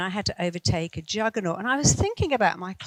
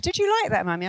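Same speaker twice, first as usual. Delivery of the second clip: put-on child asking; 3 semitones higher, faster than usual. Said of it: "she said".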